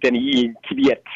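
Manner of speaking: slow, exaggerated Russian accent. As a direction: say the name like a Russian would. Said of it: "if I can put on my best Russian accent".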